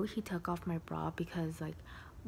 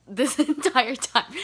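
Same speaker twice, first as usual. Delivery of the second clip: slow, louder, laughing through the words; 6 semitones higher, 12 dB louder, slower than usual. Real, not acted. To viewers about her dazed face, slow laughing. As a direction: crack up while you drag it out.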